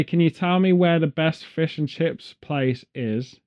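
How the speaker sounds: lightly put-on American accent, slow and polite. Brit mimics an American tourist asking for chips in a faint American accent. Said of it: "in American accent".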